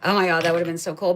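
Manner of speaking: rushed, thrilled; fast excited gush. Real, not acted. Scratching a ticket, gushing fast and excited.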